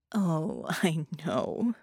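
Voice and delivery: amused laugh through words; chuckling. Acted. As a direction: laugh it off knowingly. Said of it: "and chuckled".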